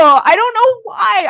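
high, helpless laughing squeal. Real, not acted. Host laughing helplessly at her own rant, high. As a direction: lose it laughing on the words.

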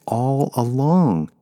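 high, drawn-out accusing question; wounded, pitch swooping up in disbelief; hurt accusation. A narrator's reading. Betrayed man confronts his old lover, hurt and accusing.

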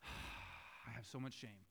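mock-confess it with a sigh, half meaning it; wife sighs half-sarcastic shame. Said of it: "Kind of sarcastic, but also real".

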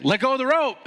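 high loud order; yelling instructor. Retold or imitated. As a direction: shout it over the rapids.

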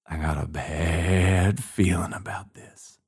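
low, slow, lightly voiced uneasy soldier; a hint of a spooked soldier muttering; nervous militiaman. Superstitious militiaman before the battle, mild uneasy mutter. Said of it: "you're gonna be all like".

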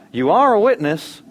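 "are" pitched high, loud and stretched; stress on ARE. Shown as a demonstration. Preacher telling believers their identity, emphatic stress on "are". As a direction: lift and lengthen "are" emphatically.

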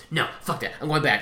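a hint of a curt, fed-up driver; Christian impression. Friend imitating Christian refusing to drive on, curt. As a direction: toss it off short like an annoyed friend. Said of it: "That was a good Christian impression".

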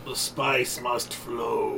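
slow, solemn movie line; lightly voiced ominous sci-fi line; slow mock Dune quote. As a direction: intone it like a film villain. Quoting Dune.

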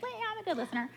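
high, breezy mock confidence in "Well, yeah, I'm a good listener"; mocking the self-satisfied listener; smug self-assurance. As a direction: toss it off like you're sure you're a good listener. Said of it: "we would all kind of say".

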